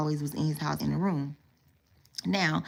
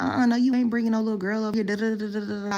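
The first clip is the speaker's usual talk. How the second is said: imagined strict mom; 5 semitones higher, faster than usual. Retold or imitated.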